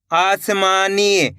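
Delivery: आसमानी drawn out slowly; slow reading. Shown as a demonstration. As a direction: sound out आसमानी slowly for learners. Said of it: "कैसे पढ़ेंगे?". (आसमानी धीरे पढ़ना)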